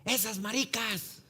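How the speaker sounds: high, drawn-out taunt at moderate volume; restrained, high-pitched heckle; imitated jeering call. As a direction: call it out slowly as if from across the street. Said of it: "de repente escuchamos".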